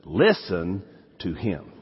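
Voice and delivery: "Listen to him" said slowly and together, leaning on "Listen"; slow repeat. Shown as a demonstration. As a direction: lead the congregation slowly through "Listen to him". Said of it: "Say that with me".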